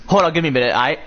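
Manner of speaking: glitchy robotic phone audio; robot voice from a glitching phone. Real, not acted. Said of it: "why you sound like a robot".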